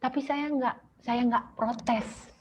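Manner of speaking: mother retelling her prayer to God, high and tearful. Retold or imitated. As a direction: pray it with a breaking voice. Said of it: "saya kasih taunya".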